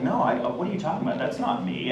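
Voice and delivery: imitating a friend's quick, innocent denial; feigned innocence. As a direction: play dumb, quickly and softly. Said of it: "such an amazing actress that she was like".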